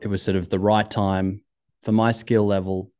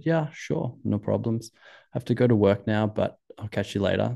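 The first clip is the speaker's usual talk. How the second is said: bad Austrian accent. Busy skier agrees to ski another time, bad Austrian accent. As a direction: put on a rough Austrian accent. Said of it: "That's a really bad Austrian accent".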